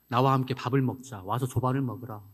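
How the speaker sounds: gentle invitation. Acted. Jesus gently inviting Peter.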